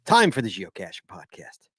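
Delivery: punchy welcome, slowing for the introduction; show-opening announcer. Acted. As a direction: announce the co-host like a ring announcer. Podcast host's show opening.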